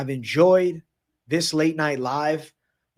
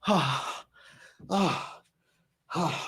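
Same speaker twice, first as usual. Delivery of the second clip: pained grunt from effort; strained grunt; 2 semitones higher, 7 dB quieter, much slower than usual. Real, not acted. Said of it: "my arms are cramping already".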